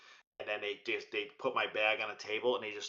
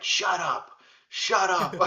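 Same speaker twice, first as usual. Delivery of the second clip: higher, louder imitated scolding; furious wife; 7 semitones higher, 7 dB louder, much slower than usual. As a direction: mimic a furious wife hushing her husband. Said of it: "just furious at me".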